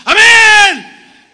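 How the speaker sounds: high, loud Amén cry; an over-the-top shouted amen. Retold or imitated. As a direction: yell it out from the back row.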